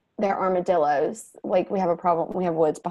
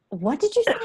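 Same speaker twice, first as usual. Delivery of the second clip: puzzled mom; 8 semitones higher than usual. Retold or imitated. Mom questioning her son.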